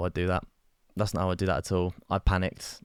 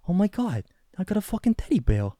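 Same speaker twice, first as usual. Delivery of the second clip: high-pitched Boston accent impression; Mark Wahlberg; 10 semitones higher than usual. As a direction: exclaim in exaggerated Bostonian. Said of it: "like, Mark Wahlberg's like".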